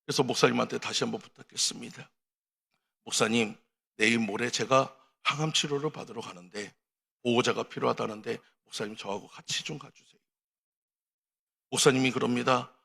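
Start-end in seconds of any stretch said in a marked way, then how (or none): 3.0-10.2 quiet plea. Acted. Sick elder pleads with pastor.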